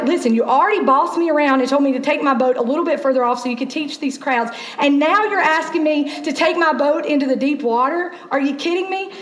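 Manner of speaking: fed-up protest, rising into disbelief; mild exasperation. Acted. Simon objecting to being bossed around, mildly exasperated. Voices Simon annoyed at Jesus.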